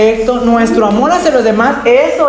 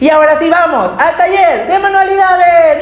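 cheerful goodbye; 7 semitones higher than usual. Acted. Cheerful farewell.

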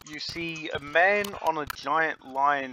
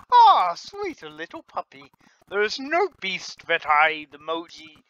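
higher, slow, doting voice; beast tamer; 4 semitones higher, 7 dB louder than usual. Acted. Beast tamer cooing over the sweet little puppy, high and slow.

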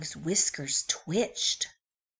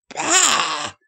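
sheep bleat; 8 semitones higher, 11 dB louder than usual. Acted. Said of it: "said the sheep".

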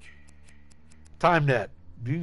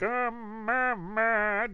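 sad stuttering Jason; 6 semitones higher, 6 dB quieter, slower than usual. Retold or imitated. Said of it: "He looks sad right there".

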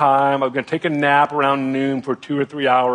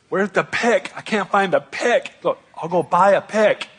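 higher, frantic retold panic; panicky; 5 semitones higher than usual. Husband panicking over the sewage, frantic. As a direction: replay the scramble, pitched up and rattled.

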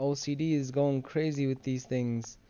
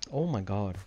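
talking through a yawn; 5 semitones lower than usual. Real, not acted. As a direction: say it mid-yawn. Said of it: "Why am I yawning so much?".

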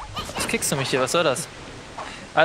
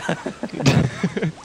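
short breathy chuckle; laughing; 2 semitones higher than usual. Real, not acted. Player expecting to lose the friendship test, chuckling. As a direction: chuckle at your own likely defeat.

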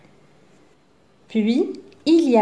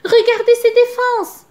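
excited exclaim; 13 semitones higher, 6 dB louder than usual. A narrator's reading. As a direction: point it out with wonder. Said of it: "s'exclame Zigomar".

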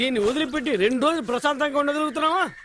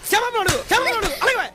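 insistent demand; 8 semitones higher than usual. Acted. Father demanding his daughter apologise.

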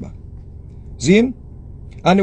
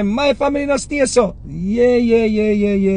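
defensive protest; 5 semitones higher than usual. Retold or imitated. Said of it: "you can say".

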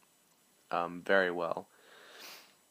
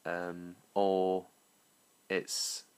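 English accent; slower than usual. Shown as a demonstration. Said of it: "my attempt at, um, an English accent".

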